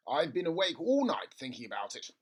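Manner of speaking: bursting with his big idea; excited father. A narrator's reading. Father to son at breakfast, excited. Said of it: "in a state of great excitement".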